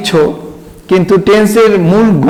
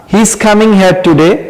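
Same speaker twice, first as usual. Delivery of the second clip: He is coming here today, slow and even; slow model sentence; much slower than usual. Shown as a demonstration. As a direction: read it out for students to copy. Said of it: "তিনি আজ এখানে আসবেন".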